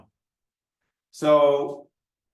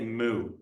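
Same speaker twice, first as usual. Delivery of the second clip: lightly imitated cow moo; a brief, understated moo; 3 semitones lower, 3 dB quieter than usual. Lecturer quoting the cow's only reply, light mooing. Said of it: "the cow said".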